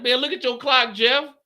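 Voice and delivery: high, loud call; yelling down. Retold or imitated. Friends telling Jeff to check the clock, high call. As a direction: call down to him, half laughing.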